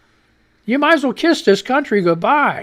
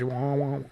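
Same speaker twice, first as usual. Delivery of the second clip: mock ear ringing; 7 semitones lower, 10 dB quieter than usual. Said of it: "That's their ears".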